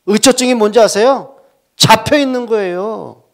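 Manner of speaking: 높고 크게 천천히 외치는 설교; 강단에서 목청 높여 선포하기. Acted. 설교 절정으로 외침. (회중에게 열정적으로 선포하는 목사)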